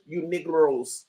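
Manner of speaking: slow mock Spanish accent, drawn out. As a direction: stretch it in a lightly faked Spanish accent. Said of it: "in my Spanish voice".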